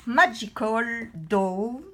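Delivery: Magical Dawn slowly in French-accented English; English title with a strong French accent. Real, not acted. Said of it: "avec mon accent".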